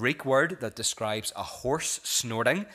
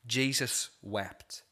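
slow, solemn repeat; 4 dB quieter, much slower than usual. Shown as a demonstration. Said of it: "It's the shortest verse in the Bible".

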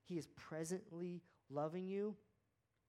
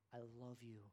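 tender quiet God voice; 6 semitones lower, 9 dB quieter than usual. Retold or imitated. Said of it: "and he goes".

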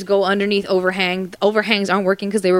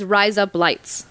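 Aussie "Rise up, lights" with a lowered, falling "lights"; Australian accent; much slower than usual. Shown as a demonstration. Friends ask her to say the phrase in her Aussie accent. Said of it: "say the words".

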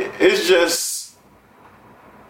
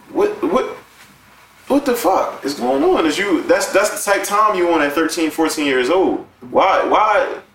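high, incredulous outburst; can't believe what happened; outraged disbelief; 4 semitones higher than usual. Real, not acted. Outraged about kids driving.

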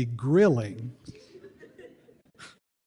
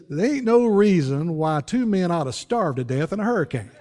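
laughing retelling; 5 semitones higher, 5 dB louder than usual. Retold or imitated. Pastor voiced in story.

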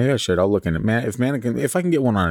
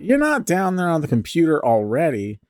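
a much higher mock mother's call; mom voice; 10 semitones higher than usual. Shown as a demonstration. Mom calls down to ask if her son is already on the computer, much higher mock mom voice. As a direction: play a put-on mum shouting downstairs. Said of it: "How would a mom say it?".

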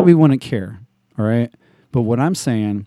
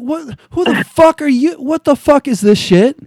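much higher, outraged disbelief; incredulous outburst; 13 semitones higher than usual. Retold or imitated. Reacting to the cologne ad, high outraged disbelief. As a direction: blurt it out baffled and offended. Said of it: "I'm like".

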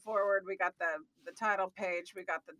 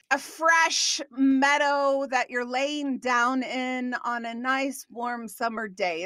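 dreamy, soothing; 3 semitones lower, slower than usual. Acted. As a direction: lull them like lying in a summer meadow. Host paints a dreamy image.

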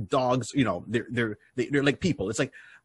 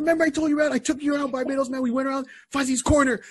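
much higher voice with laughter; laughing cousin; 13 semitones higher, faster than usual. Retold or imitated. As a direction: remind him, laughing, pitched up. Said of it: "He said".

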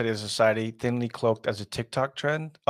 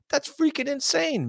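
pitched way up in disbelief; amazed. Real, not acted. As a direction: squeak out the shock. Amazed reaction.

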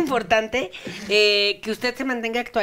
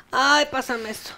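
mock weary old-lady plea; hammed-up old woman asking for help; 2 semitones higher than usual. Repeating the old-lady request more acted. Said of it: "decirle a la gente que te pase cosas".

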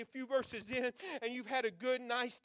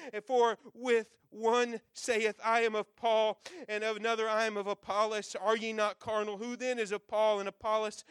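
scripture reading. Acted. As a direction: read the verses with weight. Reads scripture aloud.

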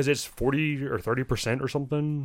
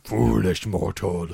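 villain voice; 2 semitones lower, 3 dB louder, slower than usual. Pretend. Spooky movie quip.

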